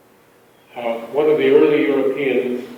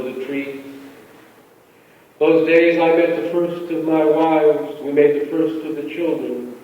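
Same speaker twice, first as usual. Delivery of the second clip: lightly voiced persona poem, read calmly in first person; poetry reading. A narrator's reading. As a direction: read it as the old settler remembering, unhurried. Reads poem in settler's voice.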